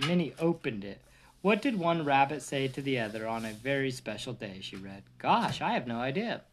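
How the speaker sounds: lively read-aloud storybook voice; reading a bedtime story to the kids. Acted. Parent reading to kids, lively storybook voice.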